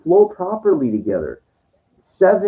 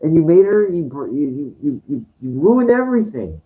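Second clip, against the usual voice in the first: passionate accusation. Real, not acted. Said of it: "I'm not angry, but I'm passionate".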